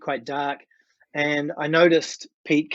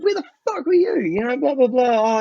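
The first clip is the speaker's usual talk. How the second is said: high, loud mock scolding; retold angry confrontation; 11 semitones higher, 5 dB louder than usual. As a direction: replay a band laying into a latecomer. Band confronts late guitarist.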